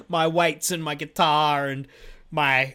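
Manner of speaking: chuckling through the words, slowed; amused, giggly list; laughing. Real, not acted. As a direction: laugh while listing the clutter. Joking about his messy backdrop.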